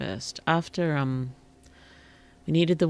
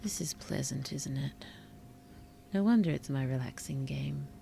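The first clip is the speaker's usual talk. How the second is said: whispering; 6 dB quieter than usual. Real, not acted. Soft relaxed aside.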